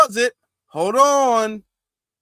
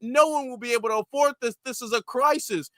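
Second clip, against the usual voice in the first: mock hysterical outrage; 5 semitones higher than usual. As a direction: ham up a politician's fake alarm.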